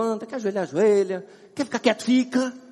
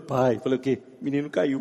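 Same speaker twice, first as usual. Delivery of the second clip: small son's deadpan voice; 8 semitones lower than usual. Retold or imitated. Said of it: "vira assim".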